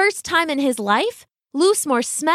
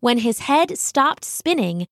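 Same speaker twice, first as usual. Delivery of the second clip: ordinary delivery, nothing marked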